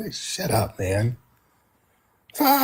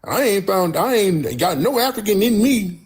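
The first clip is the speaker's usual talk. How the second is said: mocking caller; 4 semitones higher than usual. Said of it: "They call up mad at me".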